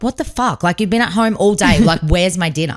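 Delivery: hammed-up complaint about a missing dinner; mock outrage. Wife pretending to scold husband over no dinner, mock anger. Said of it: "Like, if that was me".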